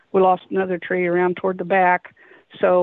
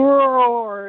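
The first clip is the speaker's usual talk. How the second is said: imitated roar; 3 semitones higher, 4 dB louder than usual. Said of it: "I'll give you an idea".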